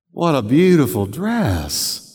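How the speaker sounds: warm, sincere "What a beautiful dress"; mean the compliment. Shown as a demonstration. Pastor showing a husband praising a dress sincerely. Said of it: "The tone you".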